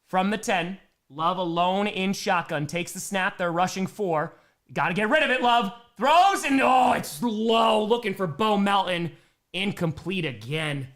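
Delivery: measured call rising briefly at the throw; live play-by-play. Real, not acted. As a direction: call the play, then let it drop on the miss.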